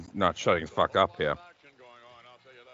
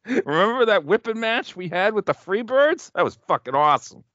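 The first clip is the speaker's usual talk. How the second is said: voicing a wrestler; 8 semitones higher than usual. Voicing wrestlers chatting on entrance.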